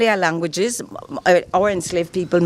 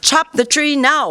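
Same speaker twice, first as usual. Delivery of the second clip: mock slave owner command; 6 semitones higher than usual. Shown as a demonstration. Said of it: "where I say".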